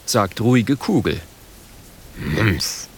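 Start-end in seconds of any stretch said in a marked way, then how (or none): 2.2-2.9 grudging murmur of a chief giving in; grumbling mmpf. A narrator's reading. Chief grumbles a low mmpf at his daughter. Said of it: "murmelt Früher Vogel".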